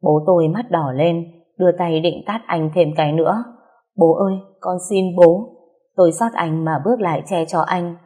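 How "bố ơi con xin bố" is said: slightly raised, imploring cry; pleading. A narrator's reading. Daughter begging father to spare boyfriend, pleading. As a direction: implore with restrained distress.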